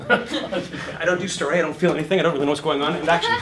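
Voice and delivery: a hint of the clueless actor; Vancouver actor. Shown as a demonstration. Mimicking the classic Vancouver actor, lightly laughing. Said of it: "your classic Vancouver actor".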